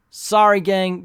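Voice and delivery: bright, loud apology; loud sorry. Real, not acted. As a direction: call out sorry cheerfully. Playful apology to viewers.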